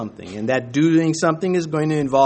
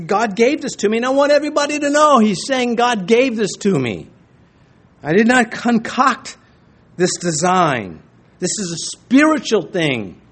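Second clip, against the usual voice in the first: higher, louder insistent King David; David insisting; 4 semitones higher, 3 dB louder than usual. Acted. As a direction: press it as God's own plan, raised and firm. David voiced defending God's design.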